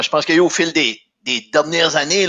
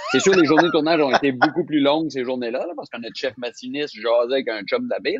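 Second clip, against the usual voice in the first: usual speaking voice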